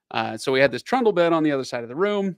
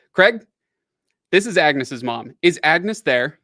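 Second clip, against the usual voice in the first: high, loud worried mother asking for daughter; higher, louder mother's voice; mom on the phone; 3 semitones higher, 8 dB louder than usual. Retold or imitated. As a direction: play the suspicious mom calling.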